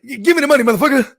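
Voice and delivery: loud, high hammed-up holdup line; mock stickup demand. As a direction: bark it like a fake tough guy. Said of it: "I tried to do my best black shit".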